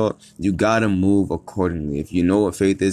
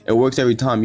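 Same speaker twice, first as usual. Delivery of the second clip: "works" hit higher and louder; emphatic repeat; 5 semitones higher, 4 dB louder, faster than usual. Shown as a demonstration. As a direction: punch "It works every time" with conviction. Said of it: "This shit's crazy".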